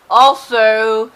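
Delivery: ordinary talk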